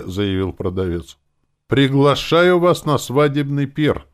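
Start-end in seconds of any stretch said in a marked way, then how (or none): 1.7-4.1 higher, louder, slow overexcited invitation; forced enthusiasm on the edge of hysteria; a bit hysterical. A narrator's reading. Ira nervously invites the elves to the wedding feast, a bit hysterical. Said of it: "немного истерично проговорила Ира".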